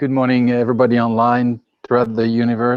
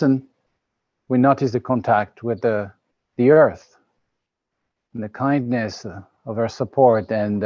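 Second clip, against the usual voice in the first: unhurried meditation guidance with pauses; calm, spaced-out phrases settling downward; guided meditation. Real, not acted. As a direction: guide listeners gently into the present moment.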